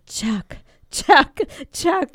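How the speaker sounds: loud rising call of Chuck's name, laughing. Retold or imitated. A mom calling her grown son, calling out loud.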